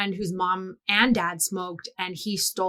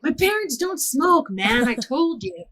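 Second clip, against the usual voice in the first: defensive protest; 6 semitones higher than usual. Retold or imitated. Kid protests in retold quarrel.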